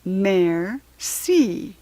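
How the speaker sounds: "Merci" with a falling French lilt. Shown as a demonstration. Teaching classmates to say thank you in French. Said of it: "You say it like this".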